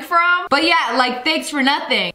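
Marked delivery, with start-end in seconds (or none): 1.2-2.1 sarcastic. Shown as a demonstration. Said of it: "It's always used in a sarcastic manner".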